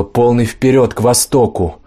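shouted order. Acted. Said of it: "Тач крикнула".

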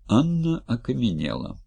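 ordinary delivery, nothing marked

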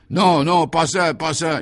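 high, loud, panicked begging; sobbing plea. A narrator's reading. Tormented gangster begs to be spared, in a sobbing plea. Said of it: "Il sanglotait à présent".

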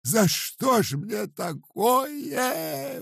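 very high, slow keening; lamenting. A narrator's reading. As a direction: grieve aloud, pleading with God. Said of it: "убивалась старуха".

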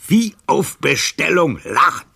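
high, loud outraged cry; indignant shout. Acted. Old librarian shouting his grievance at the count. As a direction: let the outrage burst out. Casanova recounts mocking laughter.

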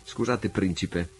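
a lightly abrupt, probing ask; brusque question. Acted. Naval officer challenging Sandokan at dinner, mildly brusque. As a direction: toss the question at him a touch curtly. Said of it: "gli chiese bruscamente".

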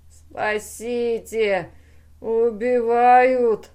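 yelling for help. A narrator's reading. The beaten brain calls for help, yelling. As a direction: wail for rescue, stretching each word. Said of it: "заорал мозг".

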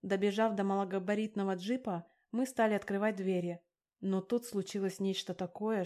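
plain reading voice

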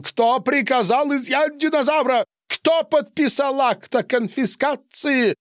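high, loud wailing cry; wailing yell. A narrator's reading. Patient wails at the doctors in a high yell. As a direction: howl it out in a high voice. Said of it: "завопил".

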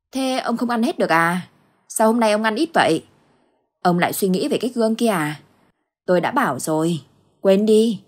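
wife fussing over her husband's worry; lightly voiced nagging wife. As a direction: chide him gently about the mirror. Wife chides husband over mirror.

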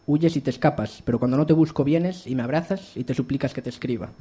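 declaimed verse with firm line openings; projected poem reading; poetry recital. Acted. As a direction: recite your poem out to the room. Recites own poem to audience.

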